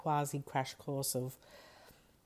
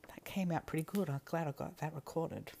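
whispered aside; 2 semitones higher than usual. Real, not acted. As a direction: whisper it under your breath. Aside to herself while recording.

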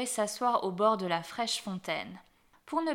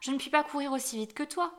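high, loud call easing into a higher-pitched plea; pleading cry; 6 semitones higher, 3 dB louder than usual. A narrator's reading. Frog to the princess running off, crying out and pleading. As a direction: call out to be taken along. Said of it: "cria la grenouille".

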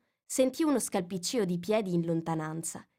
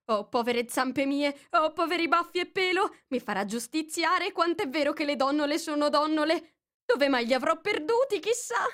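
high, anxious muttering to himself; fretting White Rabbit; 9 semitones higher, 3 dB louder than usual. A narrator's reading. White Rabbit muttering anxiously to himself about the Duchess. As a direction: fret over lost gloves. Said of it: "lo sentì borbottare tra sé".

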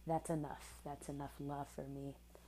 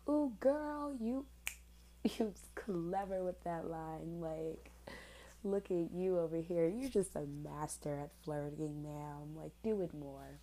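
mock sassy self. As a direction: tease your younger self. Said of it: "fifteen-year-old me was like".

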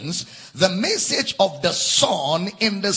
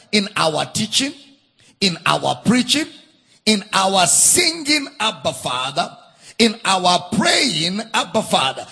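preaching at full force. Acted.

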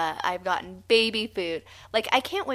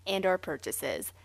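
disclaimer read. Pretend. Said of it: "Here's a disclosure I'm gonna add in".

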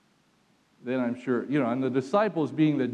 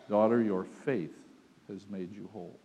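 tender Jesus; 4 semitones lower than usual. Acted. Jesus speaks to healed woman.

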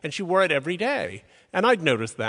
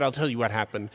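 lower, lightly imitated French accent; 4 semitones lower than usual. Curator explaining to a colleague what happened, imitated French accent. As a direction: retell it with a touch of a French accent. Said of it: "in her amazing French accent".

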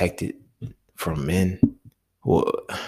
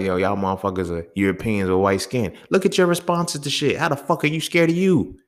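exasperated rant; 3 semitones higher than usual. Retold or imitated. Telling scared men off, a rising exasperated rant. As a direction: throw the question back at them. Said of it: "I be like".

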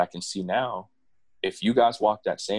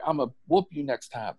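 threatening mom; 7 semitones higher than usual. Retold or imitated. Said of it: "She's like".

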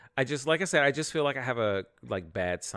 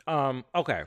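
chewing a mint while talking; crunching a mint; 2 semitones higher than usual. Real, not acted. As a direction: talk around a crunchy mint. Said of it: "I'm crunching on a mint".

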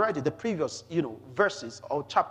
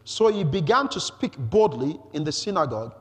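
measured, emphatic public reading; scripture reading. Acted. Preacher introduces Apollos from the scriptures, emphatic scripture reading. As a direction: read it out deliberately for the listeners. Reads the next verse aloud.

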